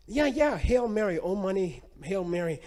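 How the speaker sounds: high, loud eager agreement; excited priest. Retold or imitated. Priest excitedly agreeing about prayers.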